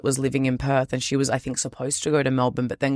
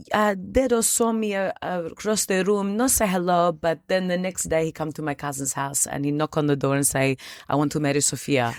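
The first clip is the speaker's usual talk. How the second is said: imitating grandma; 2 semitones higher than usual. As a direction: play the grandma retelling her courtship. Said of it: "She goes".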